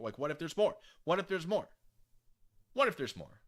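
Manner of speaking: excited. Real, not acted. Excited about more pages.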